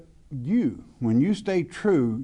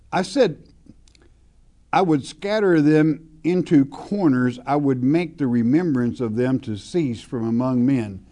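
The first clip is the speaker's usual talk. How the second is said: scripture reading; 3 dB louder than usual. Acted. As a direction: read the verse with weight, like a preacher. Reads scripture aloud from pulpit.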